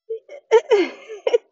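high burst of laughter; real laugh. Real, not acted. Vlogger laughs at the guest's denial, high. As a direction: laugh out loud.

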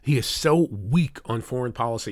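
"so weak" given extra emphasis; stress on weak. Real, not acted. Host repeating his charge against the president, stress on "weak". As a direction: press on the word "weak". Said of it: "cannot emphasize the word weak".

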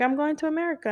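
gentle, careful telling. Retold or imitated. Mom telling her seven-year-old she's leaving, gently. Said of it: "like, a lot more sensitive".

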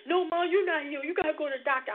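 a hint of a worried daughter; doubting daughter. Her daughter insists Mom must see a doctor.

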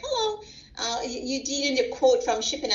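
lightly voiced caller, high hello; shipping caller. Mother imitating the shipping company caller, high voiced. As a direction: mimic the stranger on the phone.

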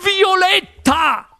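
very high, drawn-out cry; alarmed exclamation. A narrator's reading. Mother calls to daughter, exclaiming in alarm. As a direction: stretch the name in a high cry. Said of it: "esclamò la signora Beauregard".

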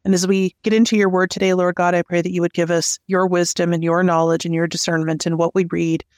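earnest, even-toned prayer; talking to God on the group's behalf; spoken prayer. Real, not acted. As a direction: pray aloud simply in an unbroken, level flow. Leads opening prayer.

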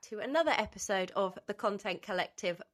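blocked nose from a cold; nasal. Real, not acted. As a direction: talk through a stuffy cold. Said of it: "I'm sounding extremely nasal".

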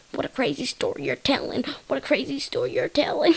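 lightly put-on guy's voice; a hint of silly character; mock-impressed guy. The guy answering the pickle fan, lightly put-on silly voice.

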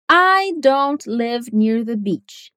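slow, "live" and "beach" stressed, "near the" swallowed. Shown as a demonstration. Teacher modelling a natural rhythm, live and beach stressed. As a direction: hit "live" and "beach" and glide over the rest. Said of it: "Apenas live e beach".

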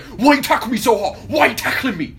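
high, loud complaint; mock whiny kid. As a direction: imitate an aggrieved kid, hammed-up. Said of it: "He was like".

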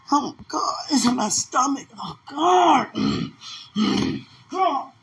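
high, tearful wailing; crying. Real, not acted. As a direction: sob out the pain in the stomach. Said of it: "She know I'm crying".

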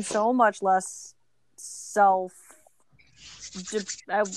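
halting, broken-off word starts; searching for the word, trailing off; fumbling for words. Real, not acted. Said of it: "I'm struggling with words right now".

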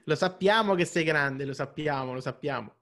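rassicurante, sempre più piano; parlando a un bambino. Real, not acted. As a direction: calma il bambino con dolcezza. (ospite che rassicura il bambino, in tono affettuoso)

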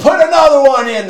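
high, loud barked order; going crazy. Retold or imitated. Coach overriding a crying smoker, crazed shout. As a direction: shout it over his protests. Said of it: "He's going crazy on this guy".

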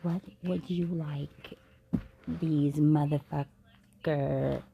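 slow, hushed mystic reading voice; slow mystical whisper to the spirit; tarot voice. Pretend. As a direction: summon the spirit like a psychic. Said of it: "gotta get my tarot voice on".

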